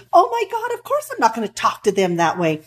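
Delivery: sudden high gasped Oh my God, then settling; mock-horrified protest; shocked reply. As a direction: act scandalised at the very idea. Acted reply of shocked client.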